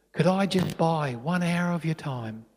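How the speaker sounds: slow, soft, hesitant request; lightly voiced little boy asking gently; tender plea. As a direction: ask carefully, letting each word land. Boy's tender request closing the story.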